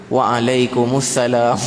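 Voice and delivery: slow, careful "Waalaikumsalam" with every syllable clear; slow proper reply. Shown as a demonstration. Preacher showing the congregation a proper reply, slow and gentle. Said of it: "kita ni elok-elok".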